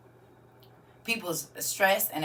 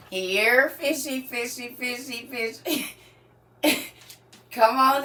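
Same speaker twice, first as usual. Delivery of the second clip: coaxing fish call; 4 semitones higher, 4 dB louder, slower than usual. Pretend. Calling fish again, softer.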